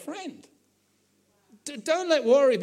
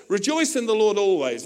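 Paul dictating; 6 dB louder than usual. Retold or imitated. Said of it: "he says".

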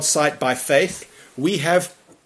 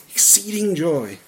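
laughing quote; 3 semitones higher than usual. Retold or imitated. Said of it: "he's lived off that verse".

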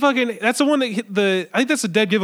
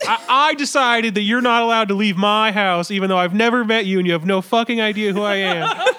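mock kidnapper; 3 semitones higher, 3 dB louder than usual. Mocking a kidnapper's speech.

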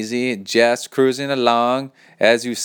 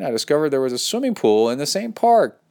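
mildly exclaimed, pitch raised; 4 semitones higher than usual. Acted. Reader voicing a listener's exclamation marks, lightly excited. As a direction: read it with exclamation points. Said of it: "Three exclamation points".

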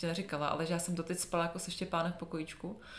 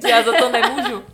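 mock excuse; 5 semitones higher, 17 dB louder than usual. Jokingly voices the swearing, laughing.

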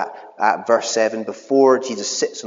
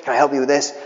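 excited Shrek donkey; 3 semitones higher, much faster than usual. Retold or imitated. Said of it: "He's so excited".

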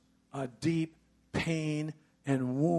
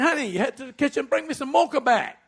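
casual request; 10 semitones higher, 7 dB louder, faster than usual. Retold or imitated. Husband ordering wife casually.

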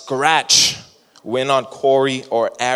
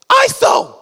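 high, loud call for the court; 6 dB louder than usual. Retold or imitated. Son calling out a play on court, high and loud. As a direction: bark the call like a street baller. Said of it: "He goes".

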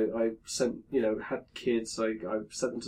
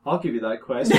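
same NPC voice; 4 dB louder than usual. Retold or imitated. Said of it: "the same voice the whole way".

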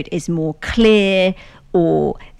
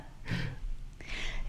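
quiet held-back sneeze, breath only; stifled sneeze; 18 dB quieter than usual. Real, not acted. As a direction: sneeze into your hand, barely voiced. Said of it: "Sorry, I'm gonna sneeze".

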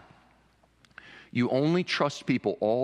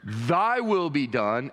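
sincere surrender; much slower than usual. Shown as a demonstration. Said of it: "What's the difference in those two comments?".

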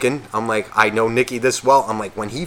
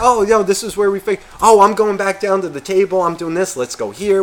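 high, loud mock indignation; hammed-up, high-pitched protest; complaining friends; 7 semitones higher, 4 dB louder than usual. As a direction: mimic rowdy buddies barging in. Impression of friends barging in.

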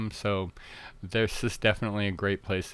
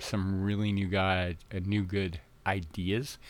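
real slip of the tongue, patched after an "uh"; tongue-tied; 3 dB quieter than usual. Real, not acted. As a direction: stumble over the words and correct yourself. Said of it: "I'm tongue-tied".

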